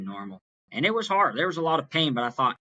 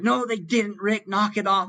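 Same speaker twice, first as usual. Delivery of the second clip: high-pitched retold protest from a distressed mom; upset crying mom; 10 semitones higher than usual. Crying mom tells dad to stop joking, high mock-upset scolding. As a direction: imitate a tearful mom scolding, pitched well up. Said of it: "and she's crying".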